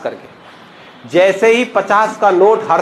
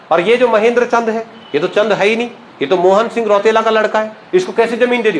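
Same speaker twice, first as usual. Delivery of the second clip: mild mock rant; 3 semitones higher than usual. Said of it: "हल्ला मचा दिया उसने".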